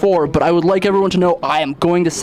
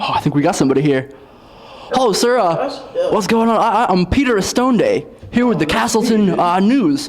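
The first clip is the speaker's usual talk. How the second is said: news reporter. Acted.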